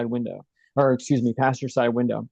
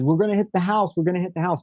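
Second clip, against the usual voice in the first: higher-pitched mild mock scream; retold panicked scream; 4 semitones higher, faster than usual. Dad warning as the truck nears the house, mild mock scream. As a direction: imitate dad's alarm, held back. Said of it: "he screamed out, he says".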